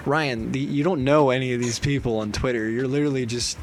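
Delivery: calm him down, low and soft; talking sense. Retold or imitated. Friend talking upset student down, calm and low. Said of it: "you would talk sense into me".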